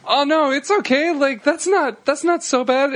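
high-pitched, awkward consoling; mock reassuring. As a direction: imitate soothing an upset friend. Retold consoling of upset friend.

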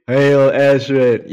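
drawn-out sarcastic hail; slow mock hail. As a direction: stretch it out, mocking the demand. Mocking the hail demand.

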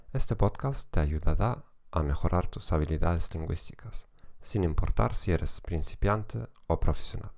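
Spanish with a German accent; German-accented Spanish, steady lecture pace. Real, not acted. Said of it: "con acento alemán".

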